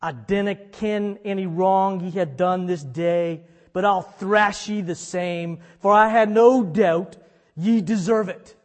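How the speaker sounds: mild Scottish brogue of a harsh father. Retold or imitated. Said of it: "bear with me on the Scottish brogue accent".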